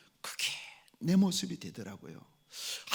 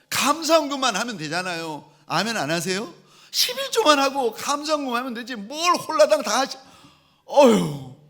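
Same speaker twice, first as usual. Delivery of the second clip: higher, louder exasperated rant at mother's giving; mock anger; 8 semitones higher, 5 dB louder than usual. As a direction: play up the pastor's frustration, half laughing at himself. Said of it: "목사인데 화가 나는 거예요".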